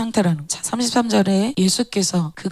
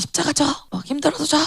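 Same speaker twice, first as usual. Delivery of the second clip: mock stern order; 6 semitones higher, faster than usual. Mimics a harshly commanding Jesus.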